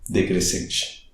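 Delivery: "decrescente" breathed out slowly, voice dropping away; slow whispered fall; falling voice demo. Shown as a demonstration. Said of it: "Se ela vem depois da vogal".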